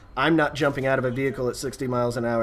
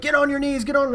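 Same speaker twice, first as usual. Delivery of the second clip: higher, raised command; cop ordering; 10 semitones higher than usual. Retold or imitated. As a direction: order him down.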